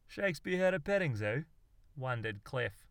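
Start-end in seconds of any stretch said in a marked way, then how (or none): 0.1-1.5 Shakespeare had a petting zoo, higher, rising on had; disbelieving double-take; puzzled question. Acted. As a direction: Cliff asks, baffled. Cliff asks in disbelief.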